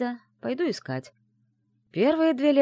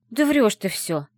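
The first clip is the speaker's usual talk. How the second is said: louder, flaring up in protest; indignant outburst; 6 semitones higher, 7 dB louder than usual. Acted. Friend flares up at a teasing claim, louder. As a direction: snap back in disbelief. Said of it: "вскинулась Аяла".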